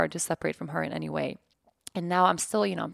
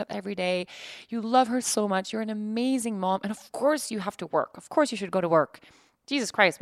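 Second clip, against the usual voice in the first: lightly higher, encouraging friend voice; a hint of an indignant, loving best friend; reassuring best friend; 3 semitones higher than usual. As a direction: cheer her up like a best friend would. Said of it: "I would say".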